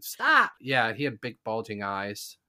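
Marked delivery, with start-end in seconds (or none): 0.0-0.5 high, loud angry stop; sharp mock shout of an irritated aunt; aunt snapping. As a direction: cut the noise off like an annoyed aunt. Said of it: "my aunt would get pissed off".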